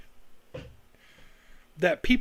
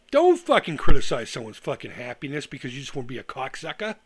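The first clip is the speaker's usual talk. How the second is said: louder, real angry outburst; getting mad; 4 semitones lower, 6 dB louder than usual. Real, not acted. To people mocking fans' excitement, openly angry and louder. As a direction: let the temper boil over. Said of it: "now I'm getting fucking mad".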